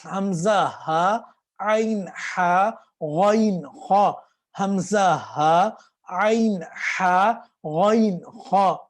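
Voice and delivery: حمزہ ہا, عین ہا, غائن خا each drawn slowly; slow letter drill. Shown as a demonstration. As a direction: chant the three letter pairs slowly. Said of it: "اس طرح کر کے".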